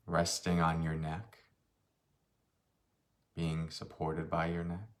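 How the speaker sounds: unhurried meditation guide, long pauses between phrases; slightly softened voice, leaving space after each phrase; guided meditation. Real, not acted. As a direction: guide them gently through a body scan. Leads a meditation.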